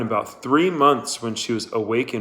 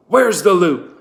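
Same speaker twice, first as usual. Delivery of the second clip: loud, higher bark; angry demand; 7 semitones higher, 8 dB louder than usual. Acted. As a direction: jab the words at her. Trout threatening with rifle.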